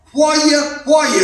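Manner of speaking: "Why you" joined as one word; "Why you" said like a single word; run together. Shown as a demonstration. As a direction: blend "Why you" with no gap between. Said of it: "is one word".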